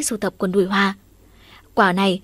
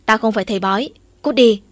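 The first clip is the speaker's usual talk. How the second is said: get lost; 4 dB louder than usual. Acted. Mother shoos hungry son.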